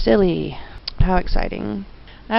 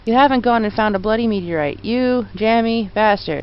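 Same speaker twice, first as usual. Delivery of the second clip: lightly voiced Cockney copper; a hint of a London bobby, unhurried; Cockney policeman; 2 semitones higher than usual. Policeman voiced in game dialogue.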